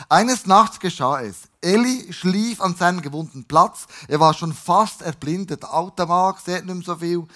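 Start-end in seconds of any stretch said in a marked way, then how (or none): 0.1-5.6 scripture reading. A narrator's reading. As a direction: read it out deliberately, weighting the words. Reads scripture aloud to congregation.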